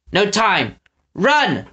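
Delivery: high, urgent command; urgent order. Acted. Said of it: "Eggs ordered".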